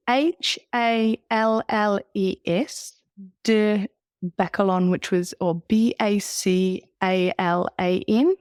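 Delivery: slow letter by letter spelling. Shown as a demonstration. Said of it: "You're gonna have to spell that for me".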